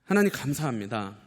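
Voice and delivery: pleading public prayer, phrase by phrase; fervent prayer. Real, not acted. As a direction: lead the congregation in earnest prayer. Leads closing prayer.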